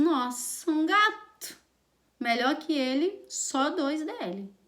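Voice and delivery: high-ending, drawn-out fake admiration; ironic praise. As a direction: praise him ironically, stretching the last words. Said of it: "dá uma ironizada". (elogio irônico, arrastado no final)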